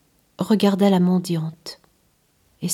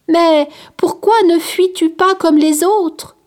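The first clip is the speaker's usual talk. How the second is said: sick man's voice; 9 semitones higher, 6 dB louder than usual. Acted. Leper asks the boy.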